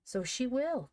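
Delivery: high, excited exclamation; crying out. A narrator's reading. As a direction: exclaim it in sudden agreement. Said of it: "cried Van".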